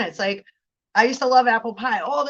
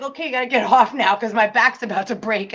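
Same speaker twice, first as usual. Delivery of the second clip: mock tired parent; 3 dB louder, faster than usual. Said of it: "And then it's like".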